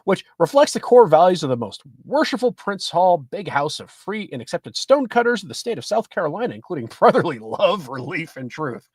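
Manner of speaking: measured news-article read; reading an article aloud. Acted. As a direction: read it out from the printed page.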